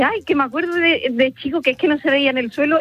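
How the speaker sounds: put-on old neighbour's lament.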